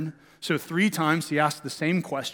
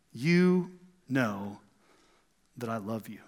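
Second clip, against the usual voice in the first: soft humble reply; 7 semitones lower, 6 dB quieter, slower than usual. Acted. Peter's humble answer voiced.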